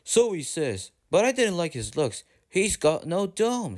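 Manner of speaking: hint at something sinister; darkly. Acted. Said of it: "said Gordon darkly".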